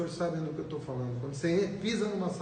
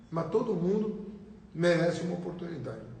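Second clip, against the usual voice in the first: talking with popcorn in mouth; munching popcorn. Real, not acted. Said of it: "Tô comendo pipoca aqui".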